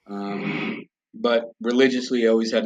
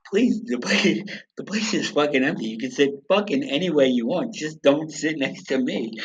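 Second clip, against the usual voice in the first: higher-pitched, retold pleading; exasperated inward plea; 4 semitones higher than usual. Man mentally begging a family to sit elsewhere, exasperated pleading. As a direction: beg in mock exasperation, slowing at the end.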